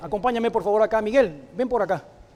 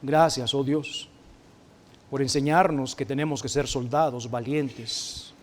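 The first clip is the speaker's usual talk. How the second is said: earnest prayer voice, lower and measured; heartfelt prayer; 4 semitones lower than usual. Acted. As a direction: pray aloud for the congregation. Leads a closing prayer. (oración sincera y pausada)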